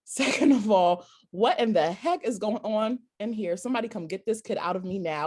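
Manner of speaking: frantic birth panic. Retold or imitated. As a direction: beg to get the baby out, half laughing. Panicked labor inner voice.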